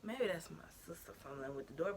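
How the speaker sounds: hushed, unvoiced wondering to herself; whispered guess. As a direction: whisper it like you're scared someone hears. Suspicious noise at the door.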